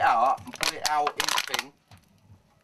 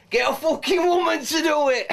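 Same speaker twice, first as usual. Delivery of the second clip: higher, laughing shout of the punchline; 10 semitones higher, 3 dB louder than usual. Acted. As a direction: yell the gag as you crack up.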